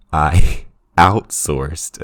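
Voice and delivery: breaking into a laugh mid-word, slowed; can't keep a straight face reading it; laughing while reading. Real, not acted. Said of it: "trying to read this without laughing".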